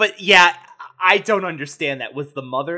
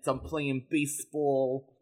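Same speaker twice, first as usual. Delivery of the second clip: put-on tough New York accent; 4 dB quieter than usual. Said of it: "tough New York accent".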